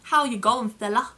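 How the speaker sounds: mock broad Aussie accent; thick Australian accent. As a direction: ham up a stereotypical Australian twang. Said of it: "a thick of an accent like".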